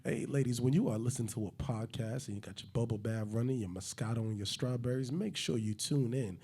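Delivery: a hint of smooth seductive host; sexy intro. Host doing a sexy intro for the ladies, lightly seductive. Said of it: "do the sexy intro again".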